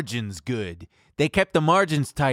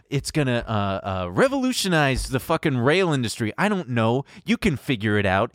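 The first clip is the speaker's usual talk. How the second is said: sarcastic pep talk; 4 semitones higher than usual. Acted. Sarcastic coaching of CEOs.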